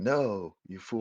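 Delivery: mildly hammed-up exasperated yell; imagined commentator yelling. Commentators yelling at a player's move, mock scream. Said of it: "the commentators are screaming".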